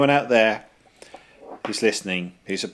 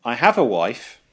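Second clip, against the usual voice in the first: mild mock shout, slightly raised; retold shout; 2 semitones higher, 4 dB louder than usual. Filmgoer telling the couples in the cinema, retold mild shout. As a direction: announce it as if to the room, half-strength. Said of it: "I did shout out".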